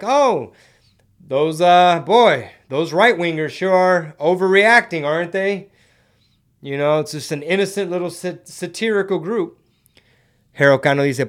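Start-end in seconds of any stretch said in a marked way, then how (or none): 0.0-5.7 a smug pundit brushing off the backlash; mocking media voice. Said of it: "They're like".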